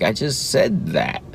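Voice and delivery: lightly voiced indignant child; a hint of a put-out little boy; imitating toddler. Dad imagining his son protesting that he already said it. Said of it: "he'd probably look at me like".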